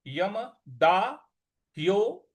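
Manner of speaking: यमदाह्यो, very slow, the ह्यो held long; teacher stretching the ओ in यमदाह्यो. Shown as a demonstration. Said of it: "ओ की मात्रा है उसको दीर्घ खींचना है".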